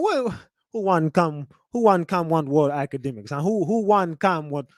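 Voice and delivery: mock Jamaican patois; Academics' Jamaican accent. Streamer mocking a clip's new accent, mock Jamaican. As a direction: imitate a put-on Jamaican accent, repeating haltingly. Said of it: "developed this damn Jamaican accent".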